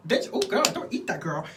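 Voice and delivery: sassy put-down over a snack; Jeffree Star mocking. Jeffree Star teasing Trisha about her food, catty high mock voice. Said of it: "Jeffree Star was like".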